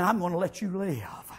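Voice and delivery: soft unvoiced whisper; the king grants mercy in a whisper. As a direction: breathe it like a merciful secret. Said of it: "king says".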